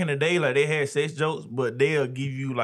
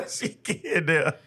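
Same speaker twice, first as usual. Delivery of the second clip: laughing; 4 semitones higher, slower than usual. Real, not acted. Teasing her friend laughing.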